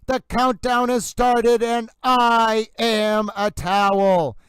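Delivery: horse racing announcer. Pretend. Stream host opening the trial day, mock horse racing announcer. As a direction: play it like a track announcer calling the start. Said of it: "I've taken on the intonation of a horse racing announcer".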